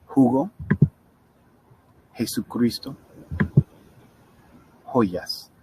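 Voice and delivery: JUGO, JESUCRISTO, JOYAS each begun with an English H. Shown as a demonstration. Teacher showing Spanish J, an H sound starting JUGO, JESUCRISTO, JOYAS. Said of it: "J's are always pronounced as English H's".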